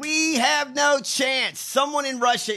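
drawn-out shout of disbelief; exasperated shout. Real, not acted. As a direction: shout it out in despair. Exasperated rant about senator.

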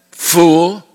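exclaimed. Acted. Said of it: "with an exclamation point".

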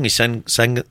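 slightly slurred speech; words slurring together. Real, not acted. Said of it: "I'm slurring my words today".

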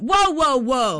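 high, gleeful mock delight; imitating happy coworker. Host mimics coworker showing off dead bat, gleeful and high. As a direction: gush like it's the best day ever. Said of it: "And I went".

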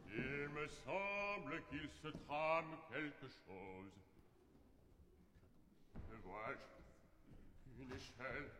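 slow, soft and suspicious; suspicious mutter. Acted. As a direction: mutter it to yourself. Suspicious discovery muttered aside.

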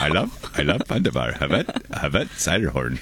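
a hint of a Viking accent, muttered softly. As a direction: murmur the name in a light Viking accent. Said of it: "Viking accent".

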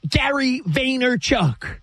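announcer flourish. Shown as a demonstration. Announcing the guru's name with flourish.

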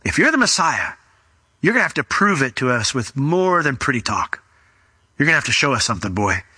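challenging crowd. Acted. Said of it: "what their next words would be".

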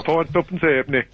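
echoing the price in Yorkshire dialect; Yorkshire accent. Shown as a demonstration. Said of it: "Well done. Well done".

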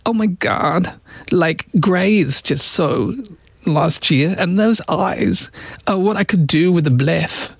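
lightly voiced, slow vapid drawl; mock valley-girl Kardashian; Kim Kardashian impression. Host imagines Kardashian commenting on aliens, mock drawl. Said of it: "She'd go".

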